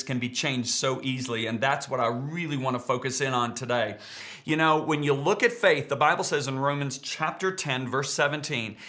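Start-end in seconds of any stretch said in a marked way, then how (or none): none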